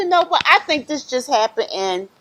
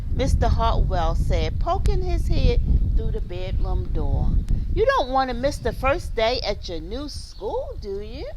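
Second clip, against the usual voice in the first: gentle read-aloud with lightly voiced dialogue; story narration; 4 semitones higher than usual. A narrator's reading. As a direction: tell the story to young children. Reads story aloud to children.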